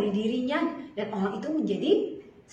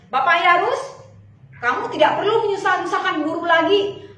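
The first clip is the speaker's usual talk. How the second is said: louder, pressing messenger; urgent bad news; 3 semitones higher, 5 dB louder than usual. (kabar buruk dengan mendesak)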